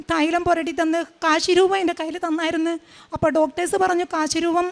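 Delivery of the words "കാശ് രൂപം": words caught in real tears; crying. Real, not acted. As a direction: speak through a sob. Tearful testimony about surgery day. (കരച്ചിലോടെ)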